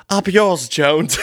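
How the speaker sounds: high, wimpy protest; Zippy protests to his boss, high and wimpy. Acted. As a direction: squeak out the objection like a meek worker. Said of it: "You say".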